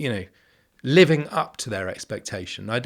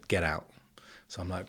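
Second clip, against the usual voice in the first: whispered aside; 4 semitones lower, 9 dB quieter than usual. Retold or imitated. Conspiratorial aside about the briefing.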